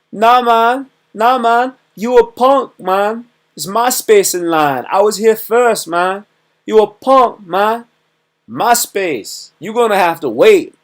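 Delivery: high, loud, belligerent street voice; aggressive line cutter. Retold or imitated. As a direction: get in his face, hammed up. Rude line cutter confronting you.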